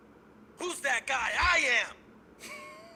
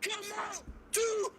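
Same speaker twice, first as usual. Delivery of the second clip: powered-up shout; 13 semitones higher, much slower than usual. Acted. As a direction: bellow it like an anime hero fully charged. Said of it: "Super Saiyan charge up for this one".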